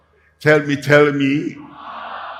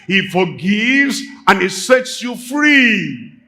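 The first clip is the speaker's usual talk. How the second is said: preaching; 6 semitones higher than usual. Acted. Preacher rises to proclaim.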